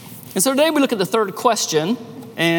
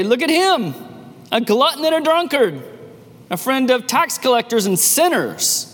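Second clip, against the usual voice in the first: mocking accusers; 5 semitones higher than usual. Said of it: "and you say".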